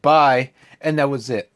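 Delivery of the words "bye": louder, clipped mock goodbye; curt bye. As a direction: drop the word and leave. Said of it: "It just went".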